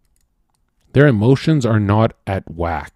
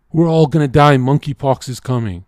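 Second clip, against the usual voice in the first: louder, higher mock alarm; mock panic; 4 semitones higher, 5 dB louder than usual. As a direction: sound the alarm like a panicky crowd. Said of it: "running around saying".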